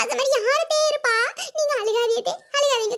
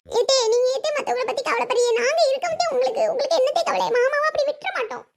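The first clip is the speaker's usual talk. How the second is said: gushing, feigned reassurance; put-on concern; 3 semitones higher than usual. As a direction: overdo the devoted daughter-in-law. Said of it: "நடிச்சாதான் அதுகிட்ட எல்லாம் நல்ல பேர்".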